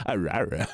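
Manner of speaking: mock bear growl; lightly voiced bear roar; playful rawr. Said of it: "I like the noise he goes".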